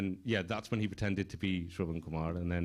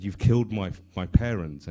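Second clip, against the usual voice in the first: mild mock cry, louder; retold scream; 6 dB louder than usual. Storyteller voicing the boy to the hunter, mildly screaming. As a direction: raise the volume as if accusing. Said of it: "a boy who was screaming".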